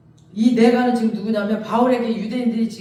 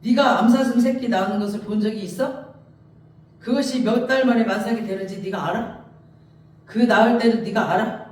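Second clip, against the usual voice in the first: lightly acted, pressing rhetorical questions; God challenging Job. Preacher as God quizzing Job on animals, mildly confrontational. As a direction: keep challenging, question upon question. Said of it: "막 하나님이 계속 말해요".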